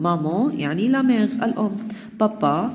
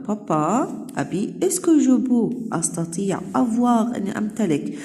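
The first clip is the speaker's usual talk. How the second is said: Clara repeated; 3 semitones higher than usual. Acted. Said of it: "encore une fois".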